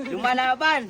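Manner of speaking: laughing exclamation. Real, not acted. Laughing through chili heat.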